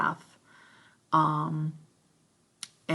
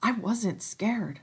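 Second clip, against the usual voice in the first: slow, higher-pitched denial; 6 semitones higher, slower than usual. Acted. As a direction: draw it out slowly. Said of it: "said Ralph slowly".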